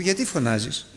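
subdued voice of God; God's quiet question. Retold or imitated. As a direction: imitate God gently questioning. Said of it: "να φωνάζεις και να σου πει".

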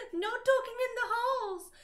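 loud, high mock-angry yell; angrily. Dumbledore scolding the goths, loud mock anger. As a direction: bark it like a strict principal.

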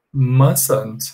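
mustn't without the t; "mustn't" said as MAS-unt, t dropped. Shown as a demonstration. Teacher showing students how to say mustn't. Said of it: "we say".

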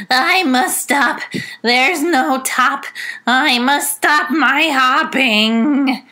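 sad rabbit. Acted. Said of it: "Rabbit said sadly".

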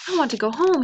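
high, loud storybook plea; panted plea. A narrator's reading. Moika racing down the mountain, urgent plea. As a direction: plead urgently, pitched high. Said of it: "he panted".

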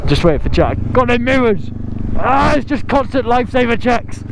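muffled through a helmet visor; inside a helmet. Real, not acted. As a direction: talk from inside a closed helmet. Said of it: "my visor's fogged up".

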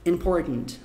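"important" with a New York swallowed T; New York American. Shown as a demonstration. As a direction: say "important" like a New Yorker, T held back. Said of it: "mais ou menos assim".

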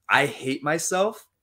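self-hating. Shown as a demonstration. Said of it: "you can probably feel the difference".

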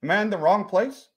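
put-on light comic Jacksonville accent. Lost visitor explains himself to the host, light Jacksonville accent.

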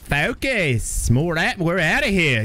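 imitating the in-game commander's line; Dirty Dave voice. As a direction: slowly echo the commander's order. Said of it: "that's what Dirty Dave says to me".

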